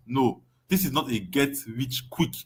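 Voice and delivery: "quick" leaned on in a slowed, firm line; slow and firm, quick stressed. Shown as a demonstration. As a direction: hit the word quick. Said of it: "Emphasis on the word quick".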